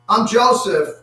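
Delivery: acted outcry, high and loud; crying out. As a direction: cry out the big reveal. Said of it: "he just cries out".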